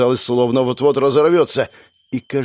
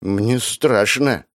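slow, scared mumble; frightened mumble; much slower than usual. Acted. Scared bandit admits fear to his gang, slow mumble. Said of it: "бормотал кто-то".

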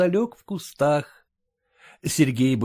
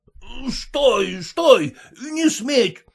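mild mock yell of stop; jealous husband calls out to halt them; shouting; 8 semitones higher, much slower than usual. A narrator's reading. Husband leaps up at wife and Sergei, shouting. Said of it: "закричал он".

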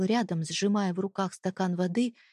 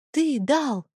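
higher, louder outburst; shouted; 7 semitones higher, 5 dB louder than usual. A narrator's reading. Wife shouts back at her husband, outraged. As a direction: cry it out at him. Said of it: "Я выкрикнула эти слова".

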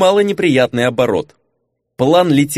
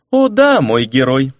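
giggly flirt. Acted. Giggly blonde.

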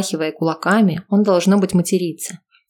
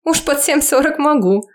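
high eager reply; enthusiastic; 9 semitones higher, 3 dB louder than usual. Acted. Eva agreeing to dance, high enthusiastic answer. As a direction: declare it with gusto. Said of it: "с энтузиазмом заявляет".

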